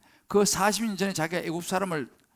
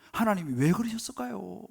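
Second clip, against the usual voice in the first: ordinary delivery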